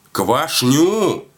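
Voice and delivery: КВАШНЮ pitched high, then falling; shouted correction. A narrator's reading. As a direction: insist on КВАШНЮ to someone who misheard. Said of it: "кричит". (настойчиво выкрикивает «Квашню!»)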